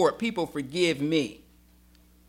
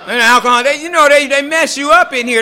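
laughing; 8 semitones higher, 9 dB louder than usual. Real, not acted. Laughing after insult story.

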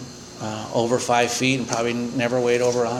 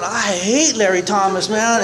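grumbling; 5 semitones higher than usual. Retold or imitated. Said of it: "I'm going".

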